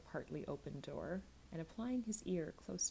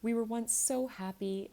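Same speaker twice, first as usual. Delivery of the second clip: eager; 5 semitones higher, 8 dB louder than usual. A narrator's reading. Nell remembering happier days with her grandfather, eager and loud. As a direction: pour out the happy memory eagerly. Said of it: "said the child eagerly".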